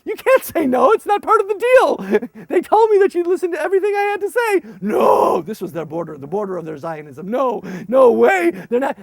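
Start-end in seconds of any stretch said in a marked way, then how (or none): 0.0-4.6 loud, high indignant shout; shocked outburst. Retold or imitated. Leader to refusing kids, loud high indignant shout. 4.8-5.4 loud voiceless shouted no; shouted refusal. Retold or imitated. Kids refusing again, loud voiceless shout. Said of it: "kids refuse again". 7.3-9.0 stubborn refusal. Retold or imitated. Kids refuse the plane.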